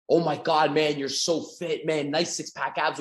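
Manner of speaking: slow, drawn-out flattering gush; gushing compliment. Pretend. Salesman flattering a fit stranger, slow gushing praise. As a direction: lay the praise on thick. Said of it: "you compliment them on a physical characteristic".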